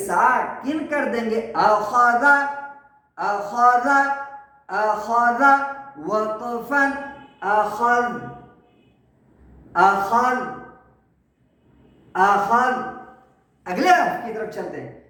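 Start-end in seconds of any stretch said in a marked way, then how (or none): 1.5-12.7 measured drill, ending on a vowelless ذ; stopping recitation. Shown as a demonstration. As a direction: recite اخذ, the last ذ stilled at the pause. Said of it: "اس کو وقف میں ساکن کر دیں گے،".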